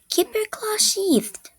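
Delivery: high, drawn-out angry warning; angry audition read. Acted.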